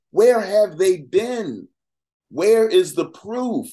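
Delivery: indignant challenge. Real, not acted.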